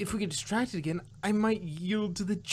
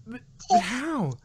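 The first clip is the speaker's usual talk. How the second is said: louder, halting, scared; frightened stammer; 8 dB louder than usual. Acted. Twilight seeing Nightmare Moon, frightened stammer. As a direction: stammer in disbelief.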